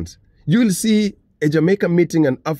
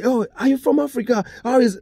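excited greeting; 8 semitones higher than usual. Retold or imitated. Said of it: "they meet somebody today".

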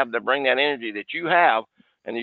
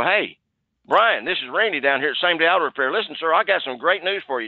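energetic sales opener; 3 semitones higher than usual. Shown as a demonstration. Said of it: "if you were to use that energy".

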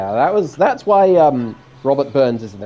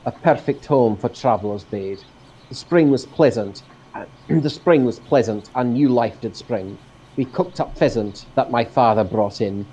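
reciting a poem; poem reading. Acted. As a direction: read it like a verse. Reads poem aloud.

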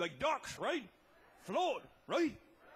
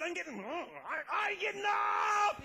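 panicky yell; 5 semitones higher than usual. Retold or imitated. Scared narrator yells over wind.

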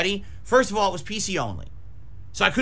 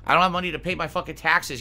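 fading repetition; 3 semitones lower, 4 dB quieter, faster than usual. Acted. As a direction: say it over and over, fading out. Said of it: "repeated line, fading".

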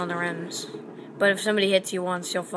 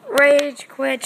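teasing; 7 semitones higher, 9 dB louder than usual. Real, not acted. Teasing after loss.

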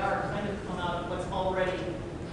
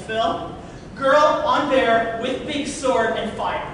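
excited pitch; 3 semitones higher, 6 dB louder, much slower than usual. Retold or imitated. Pitching the cover idea excitedly.

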